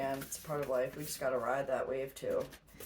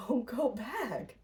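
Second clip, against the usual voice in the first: slow, hushed inner warning; slow whisper; 7 semitones higher, slower than usual. Acted.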